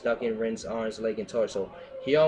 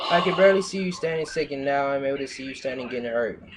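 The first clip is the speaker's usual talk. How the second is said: hammy melodrama; 3 semitones higher, 3 dB louder, faster than usual. Pretend. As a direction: ham up the dramatic line. Melodramatic quote read mockingly.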